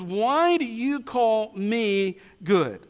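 slow question, leaning on "me"; stress on me. Retold or imitated. Preacher quotes Jesus questioning the rich man, stress on "me". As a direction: draw out "me" before "good". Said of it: "did Jesus put the emphasis".

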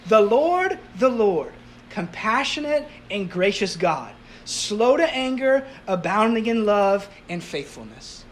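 slow, grand proclamation of the Lord's name; proclaiming. Retold or imitated. God passing Moses in the cliff, slow proclamation. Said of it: "he's, like, proclaiming".

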